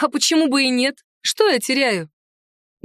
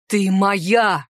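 lower-voiced claim; declaring; 3 semitones lower than usual. A narrator's reading. Centaur claiming the heroine, firmly declared. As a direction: state it firmly in his register. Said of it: "заявил он".

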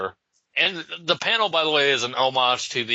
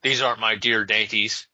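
put-on Irish accent. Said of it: "sounds like a goddamn leprechaun".

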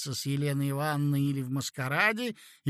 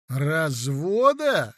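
slow, louder outraged exclamation; indignant cry; 6 dB louder, much slower than usual. A narrator's reading. Narrator crying out in outrage at her wish for divorce. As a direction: drag the word out in indignation. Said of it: "вскричал я в негодовании".

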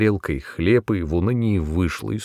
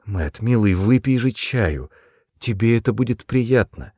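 tender coaxing. A narrator's reading. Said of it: "Мать огорчённо затормошила его".

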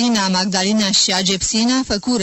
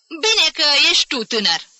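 explosive outburst; 8 semitones higher, 4 dB louder than usual. A narrator's reading. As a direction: burst out higher and louder. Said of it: "explodă". (izbucnire furioasă)

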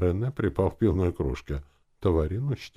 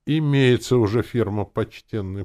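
louder, higher hum; booming drone; 7 semitones higher, 8 dB louder than usual. A narrator's reading. Gronk informing the druid of a firm, booming. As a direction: boom it out helpfully. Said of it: "прогудел Гронк".

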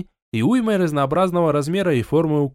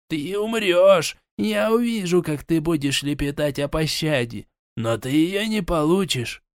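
nervous muttering monster; 2 semitones higher than usual. Acted. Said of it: "нервно бормоча".

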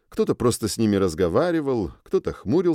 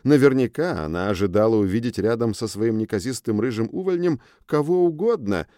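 ordinary delivery

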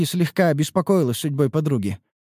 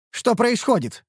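bewildered; 8 semitones higher than usual. Acted. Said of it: "вопросила она обескураженно".

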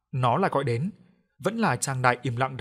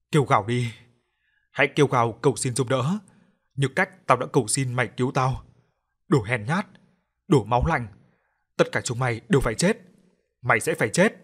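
rasping threat. Acted. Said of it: "âm thanh khản đặc".

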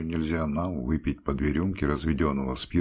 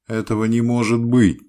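loud, higher yell of disbelief; 9 semitones higher, 11 dB louder than usual. A narrator's reading. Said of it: "заговорил я и завопил".

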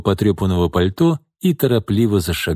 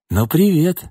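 venomous smirk; 6 semitones higher than usual. Acted. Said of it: "ядовито усмехнулся Шкворень".

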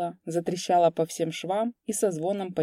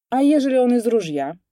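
alarmed question; 6 semitones higher, 8 dB louder than usual. A narrator's reading. Teasing worry about a gun.

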